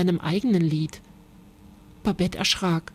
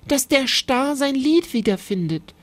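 higher-pitched mild plea; pleading; 5 semitones higher than usual. A narrator's reading. Babette begging the animals to help the starling, pleading. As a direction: ask it as an earnest request. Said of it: "bat Babette".

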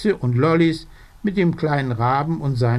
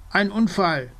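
frantic cry; 7 semitones higher than usual. Acted. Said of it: "macht so ein Mordsgeschrei".

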